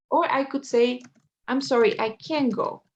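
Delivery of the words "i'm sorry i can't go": CAN'T stressed, its final t left silent. Shown as a demonstration. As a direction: lean on "can't", drop the t. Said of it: "acentúo esta palabra". (énfasis en «can't», sin pronunciar la t)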